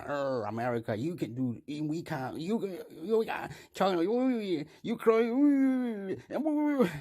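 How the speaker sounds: mock outrage that climbs to a squeal; mock angry world leaders. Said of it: "They are, they are angry".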